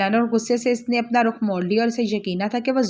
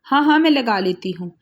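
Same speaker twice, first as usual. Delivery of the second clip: hasty; 3 dB louder than usual. Acted. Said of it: "फ़ौरन कहा".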